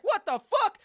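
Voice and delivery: laughing, high, loud what-the-fuck; mock disbelief. Contestant reacting to a lame prize, laughing mock disbelief. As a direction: squeal out the outrage through a laugh. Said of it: "You're like".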